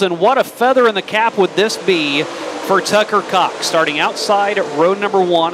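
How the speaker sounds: energetic dirt track play-by-play; motorsport commentator. Acted. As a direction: keep the race call rolling. Live race play-by-play call.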